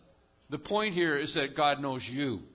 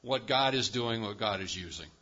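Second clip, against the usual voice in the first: retold rebuke; 2 semitones higher, 6 dB louder than usual. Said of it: "I said".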